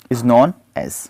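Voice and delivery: whispered teaser. Acted. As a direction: hush it like a secret. Teacher pauses before the answer. (फुसफुसाकर)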